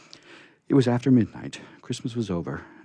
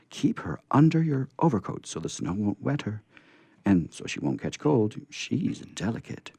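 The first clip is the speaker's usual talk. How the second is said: put-on little girl voice; 4 semitones higher than usual. Betsy instructing the scarecrow.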